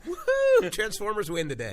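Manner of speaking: high, loud whoop of victory; triumphant cheer. Real, not acted. Host celebrating a win for Transformers, triumphant cheer. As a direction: crow over winning the point.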